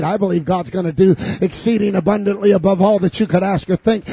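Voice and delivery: ordinary talk, nothing marked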